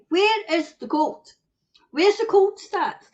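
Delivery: mock-polite question; polite version. Shown as a demonstration. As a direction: ask where is the cold nicely. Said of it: "I'm quite polite".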